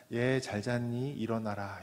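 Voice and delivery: put-on gently waking a child. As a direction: speak as to a sleeping child. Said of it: "자는 아이 다루듯이".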